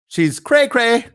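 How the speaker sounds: high, sing-song mockery; mocking. Real, not acted. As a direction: tease her in a squeaky high voice. Mocks the crying woman.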